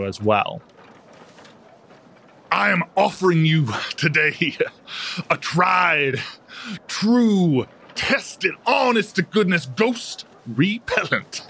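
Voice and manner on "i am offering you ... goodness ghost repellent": high, slow showman's proclamation; grand announcement. Acted. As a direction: address the crowd like a snake-oil salesman. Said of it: "when he announces".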